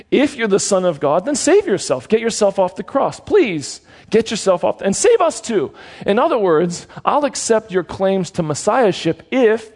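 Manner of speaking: a hint of the sneering thief begging to be saved; mocking thief. Preacher voicing the first thief taunting Jesus, mildly mocking.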